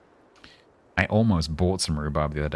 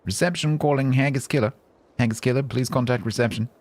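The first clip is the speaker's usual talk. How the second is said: mock reception announcement; 6 semitones higher than usual.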